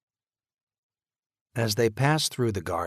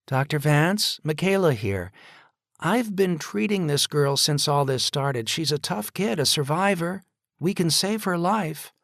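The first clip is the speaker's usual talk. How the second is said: louder, higher, pressing plea; urgent pleading; 9 semitones higher, 7 dB louder than usual. A narrator's reading. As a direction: push hard to convince him. Nurse urging doctor on phone.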